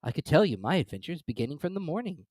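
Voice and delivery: hesitant and shy; timid. Acted. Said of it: "a little timidly".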